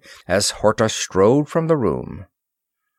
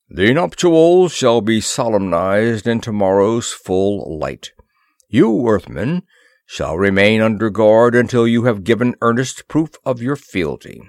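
forceful, formal decree; a hint of imperious ceremony; lightly voiced stern ruler; 4 dB louder than usual. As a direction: pronounce it as a commanding king.

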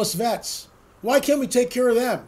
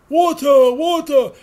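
loud, higher, pleading croak for water; Quasimodo; 6 semitones higher, 5 dB louder, slower than usual. Acted. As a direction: beg for water like the hunchback. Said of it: "channeling my inner Quasimodo".

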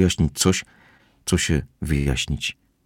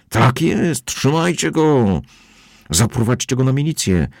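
egging on; 7 semitones higher than usual. A narrator's reading. Kozłowski egging crowd on.

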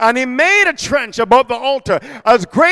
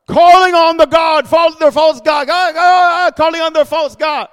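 raised, loud mock calling; mocking outcry; 4 semitones higher, 4 dB louder than usual. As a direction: cry out as if begging a false god. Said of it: "He's gonna mock them".

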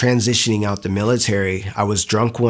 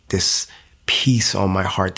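whispered; 2 semitones lower than usual. Real, not acted. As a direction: breathe it out in awe. Recalling peace at salvation.

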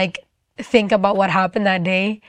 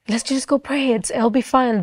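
acted soothing encouragement; gentle reassurance; 3 semitones higher than usual. Lady reassures her, acted.

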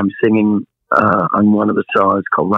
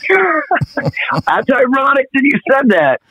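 slow, higher, laughing through words; slower than usual. Real, not acted. Laughing at the guest's joke.

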